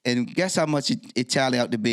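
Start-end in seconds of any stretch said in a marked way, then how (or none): none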